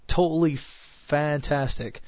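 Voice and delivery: dry, understated sarcasm; sarcastic. Real, not acted. Sick host tells listeners about his bad throat, mildly sarcastic. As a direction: say it as praise you clearly don't mean. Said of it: "using sarcasm".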